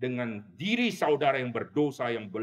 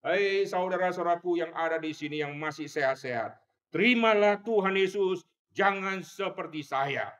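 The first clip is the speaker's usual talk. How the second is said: raised urgent appeal, slowing at the end; dying man's plea; 5 semitones higher than usual. Retold or imitated. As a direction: beg the healthy to believe. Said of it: "itu teriakan dia". (seruan mendesak orang sekarat)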